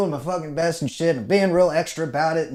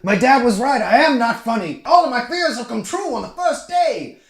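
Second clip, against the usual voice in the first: much higher, louder mock wail; hammed-up self-pity; mock despair; 11 semitones higher, 5 dB louder than usual. Recruit lamenting his failure, hammed-up despair. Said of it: "I'm like".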